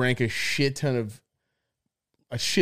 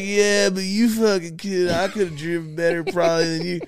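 mocking the friend; 5 semitones higher than usual. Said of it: "he's just like".

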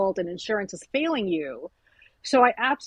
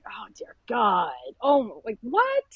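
whispered dismay; slower than usual. Retold or imitated. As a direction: breathe it in horrified disbelief. Retelling fleeing a creepy guest.

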